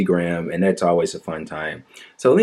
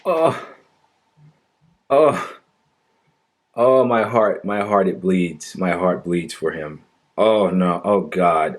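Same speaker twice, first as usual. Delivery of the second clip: sarcastic fake grief, drawn-out oh's; theatrical mock sorrow with long sighing oh's; mock heartbroken; slower than usual. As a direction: ham up a bleeding heart. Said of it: "can't you hear the pain in my voice?".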